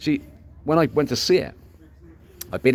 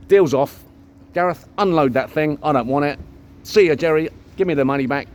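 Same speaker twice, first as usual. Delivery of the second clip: deal's off; 3 semitones higher, 4 dB louder than usual. Retold or imitated. Calling off the deal angrily.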